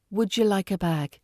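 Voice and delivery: "Would you" blended into wuh-juh; connected speech. Shown as a demonstration. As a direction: join "Would you like a bag" smoothly, with a j sound. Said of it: "in connected speech".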